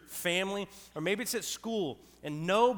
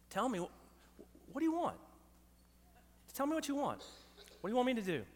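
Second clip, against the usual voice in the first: soft, high-pitched imploring; small, careful voice begging for an answer; pleading husband; 6 semitones higher, 6 dB quieter than usual. Retold or imitated. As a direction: plead quietly, with long hesitant pauses. Husband pleading with wife in argument.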